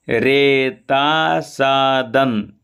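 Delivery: रेतासादन slowly, ending on the first n; split n. Shown as a demonstration. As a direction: hold the n of रेतासादन. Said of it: "एक ना इधर बोलेंगे". (रेतासादन का न यहीं बोलें)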